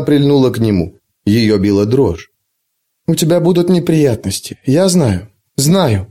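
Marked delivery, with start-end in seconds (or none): 3.1-6.1 muffled murmur into his chest; face in someone's chest. Acted. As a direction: mumble with face pressed to him. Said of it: "пробормотала она, уткнувшись ему в грудь".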